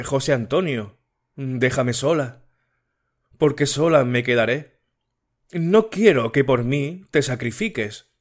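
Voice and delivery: a hint of an anxious girl pleading; Matilde voiced. Matilde sends him away.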